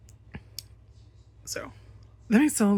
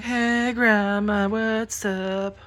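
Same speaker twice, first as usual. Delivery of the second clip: cat's innocent voice; 3 semitones higher, 3 dB louder, much slower than usual. Pretend. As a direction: voice the cat acting innocent. Voicing the calm cat.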